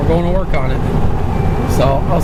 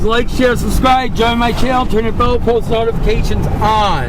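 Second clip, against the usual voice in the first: out of breath; 5 semitones higher than usual. Real, not acted. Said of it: "I'm out of breath".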